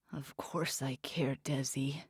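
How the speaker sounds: soft hushed whisper. Acted. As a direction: breathe it secretly. Secret tender reply.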